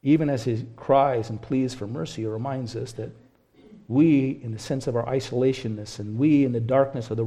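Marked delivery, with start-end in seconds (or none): none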